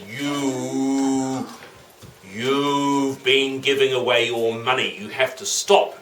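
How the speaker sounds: slow, lightly voiced governor; a hint of slow official scolding; stern governor. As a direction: draw the words out as a reprimand. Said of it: "and the governor said".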